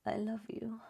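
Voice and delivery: high, small, soft voice; changed voice. Shown as a demonstration. Coach showing how voice changes the message, high and soft. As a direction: say it softly up high. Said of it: "watch this with my voice".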